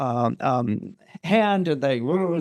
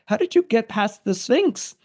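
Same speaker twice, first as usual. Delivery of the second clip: high, rising incredulous question; insistent amazement; 6 semitones higher than usual. Retold or imitated. Thebans pressing the stranger for his answer, insistently amazed. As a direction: press the question, pitched up in disbelief.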